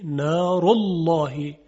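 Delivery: نار الله slow, dark thick lam in الله; heavy lam after u. Shown as a demonstration. Teacher demonstrating the heavy lam after damma. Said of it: "قبل از لام الله ... ضمه".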